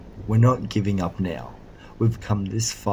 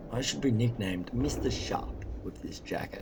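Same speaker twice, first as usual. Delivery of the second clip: soft aside; 2 semitones higher, 7 dB quieter than usual. Acted. Muttering to himself.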